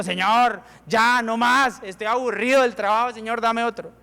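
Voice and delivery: a touch of a weary whine; mildly fed up with the job; fed-up complaint. Pretend. Tired worker complains to God about his job, mild whine. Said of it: "Terminamos año tal vez diciendo".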